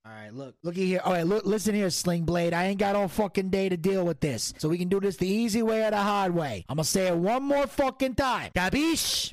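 lightly voiced mob boss; the Don. The Don presses his co-host to play along, mobster. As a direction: lean on him like a mobster.

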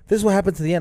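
mock gasp, then high quote; retold spoiler girl. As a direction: imitate an excited girl blurting it out. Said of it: "this girl was like".

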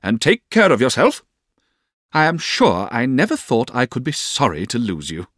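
high, emphatic parting words; aunt's farewell. A narrator's reading. Aunt's farewell to servant, acted.

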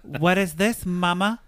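mock outrage at the mom; outraged Darcy. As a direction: squeal it out like a put-upon perfectionist. Darcy angrily voiced in retelling.

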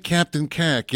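badly faked New Jersey mobster accent; Jersey accent attempt. Host imagining Sopranos actors in Star Trek, rough Jersey accent. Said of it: "I can't do the voices justice".

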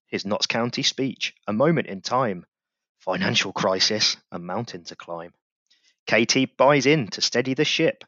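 rhythmic reading of a rhyming tribute poem; a podcast host performing his verse; poem recital. Acted. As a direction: recite it like a proud fan's ode. Reads his club poem aloud.

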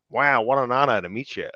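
put-on American admirer; mock awe in an American accent. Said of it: "if I could pretend to be, like, on his side".

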